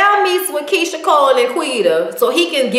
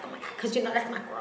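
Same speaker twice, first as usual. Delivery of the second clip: Nikki's aside; 2 semitones lower, 17 dB quieter, much faster than usual. Retold or imitated. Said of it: "and she's like".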